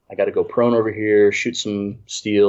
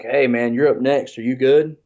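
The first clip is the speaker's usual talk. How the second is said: Nubs impression; 3 semitones higher, 3 dB louder than usual. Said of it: "that was a really good Nubs, uh, impression there".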